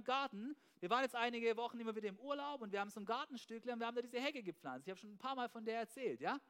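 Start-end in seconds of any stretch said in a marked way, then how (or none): none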